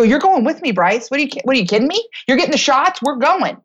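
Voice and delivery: retold bossy insistence; mock insistent. Acted argument with reluctant husband.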